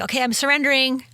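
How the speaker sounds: showy fake surrender. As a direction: announce your surrender to the room for praise. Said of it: "you're not actually surrendering".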